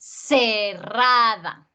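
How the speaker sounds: "cerrada" stretched out with a heavy middle A; emphatic stress. Shown as a demonstration. Teacher marking which vowel takes the accent, emphatic "cerrada". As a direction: spell out "cerrada" slowly and firmly. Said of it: "el acento recae sobre la vocal cerrada".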